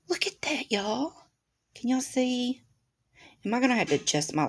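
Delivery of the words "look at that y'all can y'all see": awed whisper. Real, not acted. Showing the crystal to viewers.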